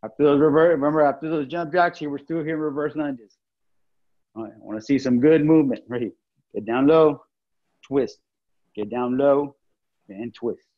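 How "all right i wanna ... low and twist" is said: heavy breathing. Real, not acted. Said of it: "Sorry if you hear me breathing hard".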